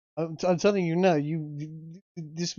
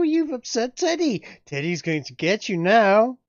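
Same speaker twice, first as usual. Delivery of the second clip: a hint of creepy taunting; menacing villain; 5 semitones higher, 6 dB louder than usual. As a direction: taunt them with glee.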